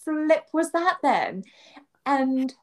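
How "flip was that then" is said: high, slow exasperated question; retold exasperation; indignant question. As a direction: demand to know what that was. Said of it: "And I'm like".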